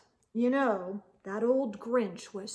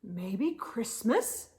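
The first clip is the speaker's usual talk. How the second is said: slow thoughtful musing; 3 semitones lower, 4 dB quieter, slower than usual. Acted. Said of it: "he thought".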